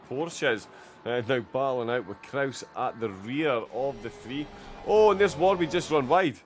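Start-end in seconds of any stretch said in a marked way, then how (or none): 4.9-6.4 sudden high, loud burst of surprise; excited commentary. Real, not acted. Commentator spotting Warby running wide, excited shout. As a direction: call out the mishap as it happens.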